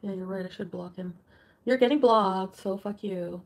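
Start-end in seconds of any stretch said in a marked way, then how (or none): 1.6-3.4 loud furious declaration; angry shout. Real, not acted. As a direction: shout the threat at him. Blocking boyfriend in anger.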